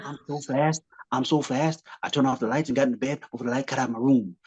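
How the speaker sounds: lightly voiced boastful boxer; a hint of a bragging champ's voice; Muhammad Ali. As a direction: loose impression of a boasting boxer. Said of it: "when he'd imitate Muhammad Ali".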